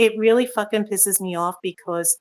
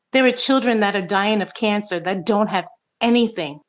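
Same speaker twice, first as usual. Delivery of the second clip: real anger. Real, not acted. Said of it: "but I am really pissed".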